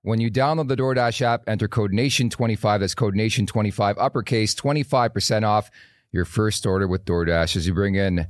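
upbeat sponsor read voice. Acted. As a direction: read it like a radio ad. Reads sponsor ad.

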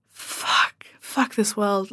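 reading the schoolgirls' email, a whispered despairing curse. Retold or imitated. Retelling reaction to sad email.

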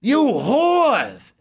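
put-on high, shrieking curses from an old woman; high, slow shrieked rant in a little old lady's voice; old lady screaming. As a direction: scream like a furious old lady alone at home. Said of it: "behind closed doors".

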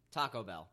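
TACO Bell, weight on TA, falling away on Bell; habitual front stress. Shown as a demonstration. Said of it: "I've always said Taco Bell".

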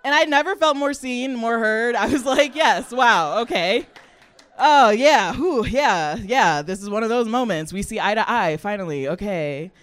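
loud, high mock delight at being called out; sarcastic elation. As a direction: gush with exaggerated gratitude, high and loud. Mock elation at mom's insult.

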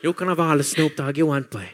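put-on Cork accent, in playful imitation. The ether of Cork speaking from the Lee, Cork accent. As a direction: speak as the airy spirit of Cork. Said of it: "the ether of Cork drifting in from the Lee and speaking".

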